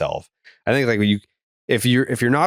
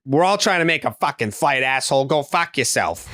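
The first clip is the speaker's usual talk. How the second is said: higher, mock rude comeback; imitating angry sister; 6 semitones higher than usual. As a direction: snap it back at him, hammed-up. Sister snapping back at man.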